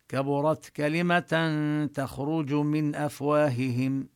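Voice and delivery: slow, careful tajweed chanting; measured chanted verse reading; Quran recitation. Shown as a demonstration. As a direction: recite the verse deliberately, holding each sound. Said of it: "من أفواههم حكم النون الإظهار".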